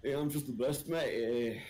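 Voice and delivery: hammed-up English accent; English Sleepy impression. Englishman imagines friend gone English, mock English accent. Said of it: "wanna do English Sleepy".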